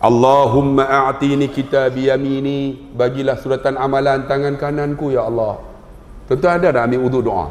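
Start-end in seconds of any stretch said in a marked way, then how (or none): 0.0-5.6 prayer recitation. Acted.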